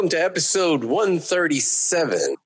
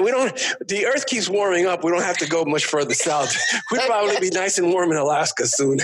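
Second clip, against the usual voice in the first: laughing; 4 semitones higher than usual. Real, not acted. Joking about global warming.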